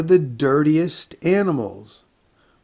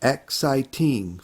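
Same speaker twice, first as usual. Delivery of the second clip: slow syllable count; slower than usual. Shown as a demonstration. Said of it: "How many syllables are in this word?".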